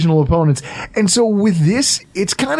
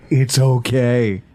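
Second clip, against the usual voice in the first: drawn-out, lower mock reassurance; slow soothing; 5 semitones lower, much slower than usual. Repeating it to his wife, slow mock soothing. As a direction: stretch it out to calm her down.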